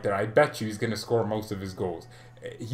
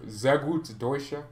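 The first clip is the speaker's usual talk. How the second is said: mock German boast; slower than usual. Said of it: "I do speak German".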